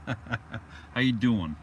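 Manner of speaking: slow, drawn-out New York greeting; lightly hammed New York accent, slowly. Shown as a demonstration. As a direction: stretch the hello in a playful New York accent. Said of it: "This is my New York accent".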